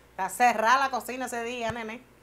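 said out loud so he hears; said loud for him. Acted. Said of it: "déjame decirlo duro para que lo escuche".

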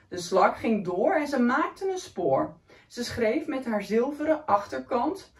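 put-on lively read-aloud for a child; story reading. A narrator's reading. Reading a picture book to a young child, lively. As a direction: read the picture book warmly to a little one.

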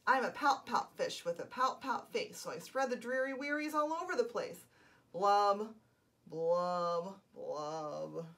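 the sulky fish sings his refrain; glum pout fish. Acted. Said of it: "glum, gloomy swimmer".

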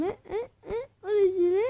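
laughing helplessly at losing ground; giggling through the line. Real, not acted. Laughing while dropping places.

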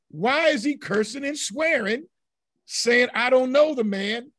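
high, incredulous question; puzzled challenge to the class; insistent questioning. Real, not acted. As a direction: press the question, pitched well up. Pointed rhetorical question to class.

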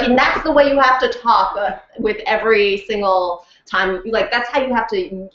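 a hint of Singaporean accent, insistent; lightly voiced Singaporean coach, pounding "pound". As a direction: pound the words like the coach says. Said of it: "And she was like".

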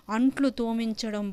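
usual speaking voice

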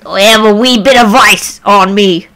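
rough stab at a sailor-pirate accent; attempted pirate accent. Shown as a demonstration. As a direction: try a pirate accent, not quite managing it. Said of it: "I'm trying to do the accent".

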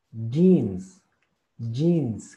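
JEANS begun with a Spanish Y sound. Shown as a demonstration. Teacher showing students the word, "Jeans" with a Y sound. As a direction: say "Jeans" with a strong Y at the start. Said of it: "lo pronunciamos así, con la Y".

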